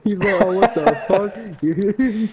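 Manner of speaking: laughing. Real, not acted. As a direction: crack up and shout through it. Bursting out laughing at joke.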